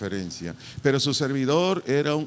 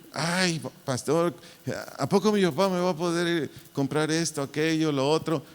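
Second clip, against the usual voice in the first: put-on a light, higher doubting child; 4 semitones higher than usual. Pastor imitating a child asking him, higher and lightly voiced. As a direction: voice a kid asking pastor if dad can pay. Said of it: "se quejan de todo".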